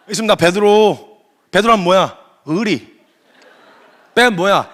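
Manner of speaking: swaggering loyal Peter. Acted. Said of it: "그래가지고 베드로가".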